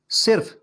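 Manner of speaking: صرف with an i, no vowel before f; pronounced sirf. Shown as a demonstration. Teacher introducing the word for "only", pronounced sirf. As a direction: say صرف as "sirf", short i after s. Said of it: "صرف کا مطلب کیا ہے؟".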